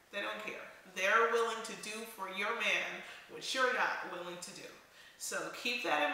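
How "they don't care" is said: softer echo, stress on they; quiet repeat. Shown as a demonstration. Vlogger repeating her warning to wives, softer echo. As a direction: drop the voice and lean on they.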